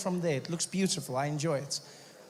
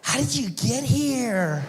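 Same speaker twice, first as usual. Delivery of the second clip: put-on high, slow, amazed surfer-girl question; California babe; 6 semitones higher, 4 dB louder, much slower than usual. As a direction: wonder like a ditzy beach girl. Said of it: "California babe".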